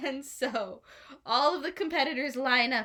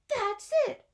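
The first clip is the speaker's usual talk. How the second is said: excited Robin Hood; 13 semitones higher, 4 dB louder than usual. A narrator's reading. Robin Hood's excited realization.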